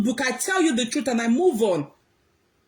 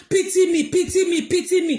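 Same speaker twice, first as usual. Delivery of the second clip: higher, pleading mock of begging for pity; mocking pity-seeker; 5 semitones higher than usual. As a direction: whine it like a self-pitying beggar. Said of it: "if you seek too much".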